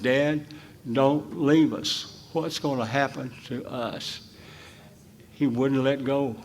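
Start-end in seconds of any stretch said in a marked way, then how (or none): 0.0-4.2 put-on a touch of a pleading boy, slow; slow, lightly pleading child's plea; retold crying child. Son clinging to his ankle, mild tearful plea. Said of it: "crying, saying".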